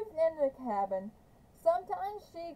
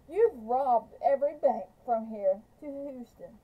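louder accusation; 5 dB louder than usual. Acted. Trout accusing Kate at gunpoint.

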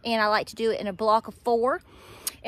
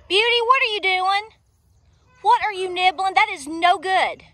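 pet talk; 7 semitones higher than usual. Real, not acted. Talking to her animal.

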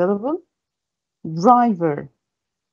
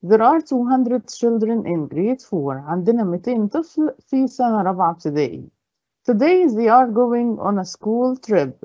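slow read-aloud; 2 semitones higher, slower than usual. Acted. Reads word problem slowly.

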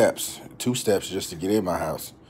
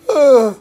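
burp; 14 dB louder than usual. Real, not acted. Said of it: "excuse me".

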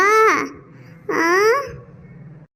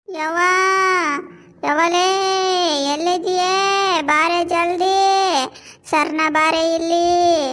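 crying out for mother. Acted. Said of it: "ಯಾಕೆ ಅಷ್ಟು ಜೋರಾಗಿ ಕೂಗ್ತಿದ್ದೆ".

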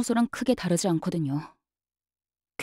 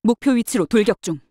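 raised, forceful battle call; urgent combat report; 2 semitones higher, 5 dB louder than usual. Acted. Guard charging at the target position, urgent combat report. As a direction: report firmly as you charge.

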